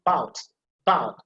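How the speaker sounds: "bout" for "about", first vowel left off; dropped initial schwa. Shown as a demonstration. Teacher showing that the first vowel is invisible, dropped schwa in "bout". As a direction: say "bout" as one syllable, no opening schwa. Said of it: "forget about it".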